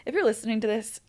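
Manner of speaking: tearful, voice wobbling with tears; talking through tears, apologetic; crying voice. Real, not acted. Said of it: "you have such a cute crying voice".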